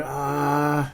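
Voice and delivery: long drawn-out "uhh"; sustained thinking sound; stalling noise. Real, not acted. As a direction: hold a level "uhhh" while searching. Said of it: "Sorry about that sounds I'm making".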